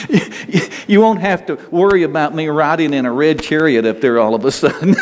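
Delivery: a laugh breaking into the words. Real, not acted. Pastor telling the congregation God's joke, laughing. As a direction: talk on through chuckles.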